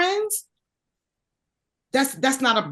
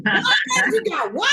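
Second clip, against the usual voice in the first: mock surprise; 8 semitones higher than usual. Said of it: "So I be like".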